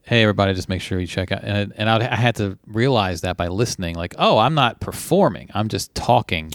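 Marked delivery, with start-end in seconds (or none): 0.1-1.4 flat, lifeless, level monotone with no energy. Recalling how they used to talk sitting in a room, flat monotone, no life. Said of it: "I'd be like monotone, not breathing life into it".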